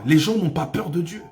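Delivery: ordinary talk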